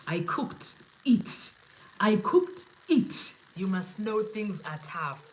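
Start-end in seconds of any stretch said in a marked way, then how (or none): 0.1-1.5 lightly voiced boastful chef. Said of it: "When a chef goes around saying". 2.0-3.3 hammed-up proud chef, rising to a higher last word; boastful chef. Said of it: "When a chef goes around saying".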